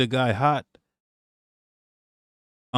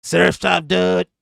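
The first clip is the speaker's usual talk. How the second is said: put-on a light Israeli accent surfer call, a bit louder; mock Israeli surfer accent; 4 semitones higher, 4 dB louder, slower than usual. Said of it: "That accent is crazy".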